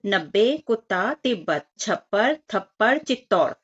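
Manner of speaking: put-on each word read out separately for children; reading word list aloud. Shown as a demonstration. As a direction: clear word-by-word reading demo. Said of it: "तो पढ़ लेते हैं".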